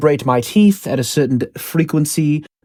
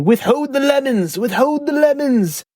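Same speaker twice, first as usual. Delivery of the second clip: high scheming villain; sinister villain voice; 12 semitones higher than usual. Retold or imitated. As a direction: hiss it like a plotting villain. Villains quoted in story.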